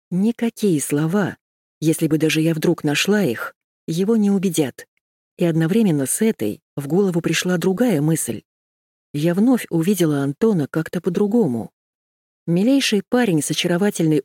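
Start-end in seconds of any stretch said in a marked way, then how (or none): none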